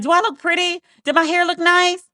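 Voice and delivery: retelling Meg asking her team, mildly insecure; sad insecure quote. Retold or imitated. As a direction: mildly voice a girl asking for reassurance. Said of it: "And she was like".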